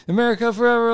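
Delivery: Uncle Sam. Acted. Good guy rallying the crowd after felling the heel, high mock-patriotic cry. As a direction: proclaim it high like a patriotic wrestler. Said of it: "like Uncle Sam".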